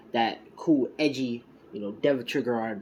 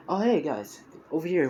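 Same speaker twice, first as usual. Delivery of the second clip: raised voice hailing friends across the room; calling out; 6 semitones higher, 4 dB louder than usual. Retold or imitated. Bakugo waving the two boys over, calling out. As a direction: call them over, louder and higher.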